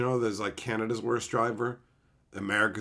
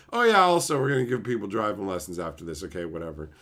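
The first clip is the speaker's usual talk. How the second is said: dismissive host; 5 semitones lower, faster than usual. Retold or imitated. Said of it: "And they're like".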